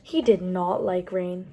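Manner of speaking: picture-book narration; reading to children. A narrator's reading. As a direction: build the list to a big finish for kids. Reads a picture book aloud.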